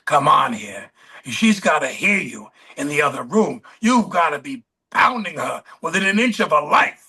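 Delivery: a light imitation of a hoarse New York director; raspy New York director. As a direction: put on a gravel-edged New York accent to push the actors. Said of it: "He had a very hoarse, raspy New York voice".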